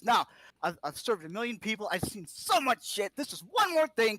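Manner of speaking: from gritted determination to a near shout; determined push. Acted. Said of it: "and he goes".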